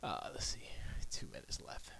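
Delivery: whispered to himself. Real, not acted. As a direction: murmur it under the breath. Whispered aside.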